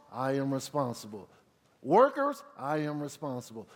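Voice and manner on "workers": put-on loud, high call to the children; a preacher's rallying call. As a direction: call them out by name. Calling out each group.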